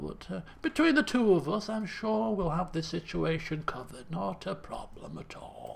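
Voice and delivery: a lightly voiced nervous cop; nervous bluffing officer. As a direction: bluff calm while panicking. Player voices nervous Costello.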